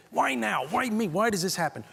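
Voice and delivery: high, self-pitying why-me whine; whiny complaint. Retold or imitated. Imitating people at work complaining in a high whine. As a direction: moan it like life is unfair. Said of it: "What's the first thing you say?".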